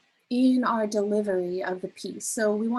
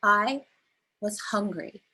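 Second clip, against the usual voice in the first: "I" held, a pause, then "was hungry" drops; pause after I. Shown as a demonstration. Teacher shows a pause for the class, pause after I. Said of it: "where you putting emphasis".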